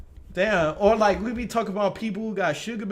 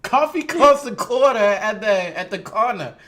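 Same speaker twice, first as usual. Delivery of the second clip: Southern demo, "uh" ending each word; Southerner's take on the line; Southern accent with "uh" endings; 2 semitones higher, 5 dB louder than usual. Shown as a demonstration. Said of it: "everything got a U H at the end".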